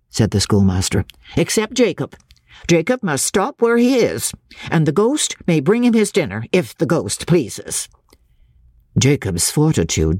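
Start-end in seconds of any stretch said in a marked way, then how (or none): 1.4-7.9 stern master, slowing to sarcasm; strict teacher. Acted. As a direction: punish the boy with dry scorn. Schoolmaster punishing Jacob.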